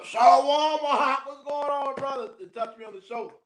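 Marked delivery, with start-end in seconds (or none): 0.0-2.3 higher, bright mock greeting from a junior; cheerful greeting. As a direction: greet the senior like an old friend, higher. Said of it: "And you come".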